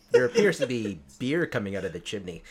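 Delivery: lightly voiced cartoon police chief; a hint of a police chief radioing in; Chief Wiggum. Fan quoting a favorite Simpsons scene, light Chief Wiggum impression. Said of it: "you see Wiggum going".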